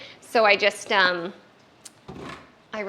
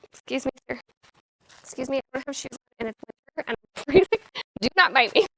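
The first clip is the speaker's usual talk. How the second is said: playful indignation; 3 semitones higher, faster than usual. Real, not acted. Scolding puppy playfully.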